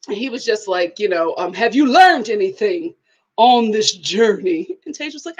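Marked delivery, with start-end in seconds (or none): 1.5-4.8 lightly imitated slow, grave dad; a hint of a wise elder's gravity; solemn father voice. Dad questioning Tage about the journey, lightly voiced solemn father. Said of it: "But his voice".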